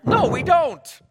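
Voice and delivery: sheepish disciples. Retold or imitated. Disciples answer Jesus sheepishly.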